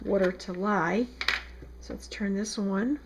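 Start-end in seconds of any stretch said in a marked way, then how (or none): 1.8-3.0 casual South Jersey accent. Real, not acted. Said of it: "You like my South Jersey accent?".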